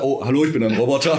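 mock robot greeting; lightly voiced cheerful robot. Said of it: "Jetzt muss er".

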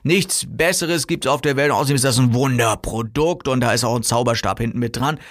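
mock salesman hype, lightly overdone; exaggerated hype. Seller claiming a wonder product, exaggerated. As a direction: keep piling on the praise. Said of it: "und du übertreibst total".

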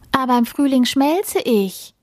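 high little snowflake protest; protesting call. A narrator's reading. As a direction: call it out in mild dismay. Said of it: "ruft die kleine Schneeflocke". (protestierend gerufen)

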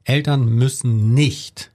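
slow, with nicht clearly leaned on; deliberate, slow emphasis on the word nicht; stress on nicht. Shown as a demonstration. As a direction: slowly, land the weight on "nicht". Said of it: "Betonung auf nicht".

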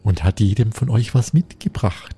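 a toned-down big bad wolf; slow low wolf, not too spooky. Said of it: "nicht ganz so gruselig sprechen".

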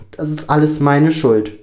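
distressed self-blame. A narrator's reading. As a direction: blame yourself, upset but still speaking. Lukas blames himself, tears falling. (aufgewühlte Selbstanklage)

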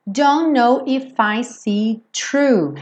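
Don't know if I see true with it dropped; swallowed it before true. Shown as a demonstration. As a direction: let it vanish into see true. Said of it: "quase como se ele dissesse see true".

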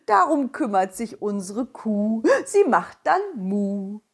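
slow, lightly voiced cow. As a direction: talk like a gentle slow cow. Cow figure speaks.

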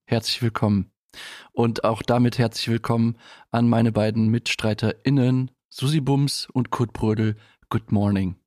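langsame, getragene Begrüßung mit Pausen; Moderation zur Showeröffnung. Acted. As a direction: die Show gemessen und ruhig eröffnen. Host opens the show. (getragene Radiomoderation)

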